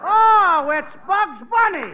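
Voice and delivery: high, loud surprise; sudden delighted recognition; surprised. Acted. Recognizing caller on the phone.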